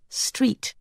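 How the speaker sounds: breathed silently, lips only; just shape the word with your lips, no voice; mouthed. A narrator's reading. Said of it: "Ugu mouthed".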